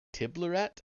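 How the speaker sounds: name thrown back high and rising; puzzled echo. A narrator's reading. Oban echoes the strange name.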